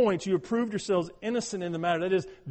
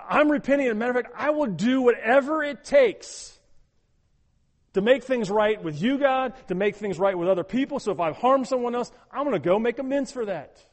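earnest shout; 5 semitones higher, 5 dB louder than usual. Acted. Voicing a repentant believer.

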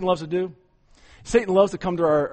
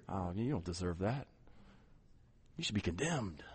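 low, much softer taunting voice; whispered accusation; 10 semitones lower, 18 dB quieter than usual. Retold or imitated. Satan whispering condemnation into your ear, low and soft. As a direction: breathe the accusation quietly and low. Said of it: "Satan kinda whispering in your ear".

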